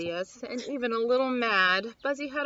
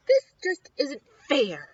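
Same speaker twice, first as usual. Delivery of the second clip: sad; 3 semitones higher, 7 dB louder than usual. Acted. Buzzy overcome with grief.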